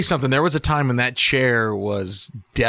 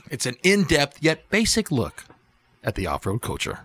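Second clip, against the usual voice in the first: movie trailer voice; 4 dB quieter than usual. Acted. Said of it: "summarize it in, like, a movie trailer voice".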